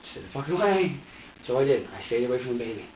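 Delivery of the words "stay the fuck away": higher, more urgent warning; insistent self-warning. Retold or imitated. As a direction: order yourself firmly to back off.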